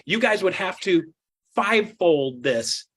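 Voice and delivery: slow, deliberate fivefold this; slow emphasis. Real, not acted. Telling agents the size of the gap, slow. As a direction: spell it out slowly. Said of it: "slowed for emphasis".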